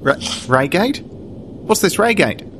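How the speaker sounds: slow, puzzled bad Kiwi voice; dodgy New Zealand accent. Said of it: "a very dodgy New Zealand accent".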